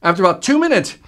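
two minutes held up, lightly emphasized; stress on two minutes. Shown as a demonstration. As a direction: hit two minutes again. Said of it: "notice I'm emphasizing two minutes".

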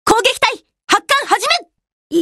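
high, crisp launch order; commanding military call; battle command. Acted. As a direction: order the planes off. Orders the attack squadron to launch.

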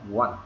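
short "want" with the T set apart; clipped-off "want" ending on a T; separated final T. Shown as a demonstration. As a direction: cut "want" off, then tap the T. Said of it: "chúng ta có quyền chúng ta ngắt ra".

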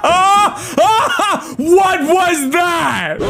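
loud, high panicked shouts; frantic yelling. Real, not acted. Player yelling at the game hand, frantic.

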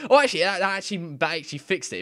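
high, loud burst of surprise; suddenly thrilled it worked; real excited surprise; surprised delight. Real, not acted. Surprised the comma fixed it.

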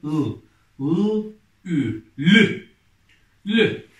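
loud, drawn-out syllable reading for the class; reading syllables aloud. Shown as a demonstration. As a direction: sound out each letter clearly, then blend them loudly. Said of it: "Okuyalım".

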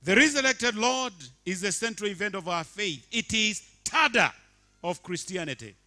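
loud, high, sustained sermon delivery; full-force preaching. Acted. Pastor proclaiming resurrection to congregation, loud preaching. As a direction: proclaim it to the whole church.

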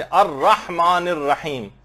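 अर्रहमानिर रहीम recited slowly, full doubled र; slow Arabic recitation; careful recitation. Shown as a demonstration. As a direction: stretch out अर्रहमानिर रहीम deliberately. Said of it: "जैसे".

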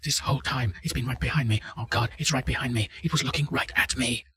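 terrified, being chased and begging; panicked and hysterical. Acted. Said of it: "Panicked and hysterical".

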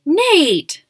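high, loud cry of reproach; scolding exclamation. A narrator's reading. Mom scolding dad for his joke, shocked. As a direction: call out the name in shocked protest.

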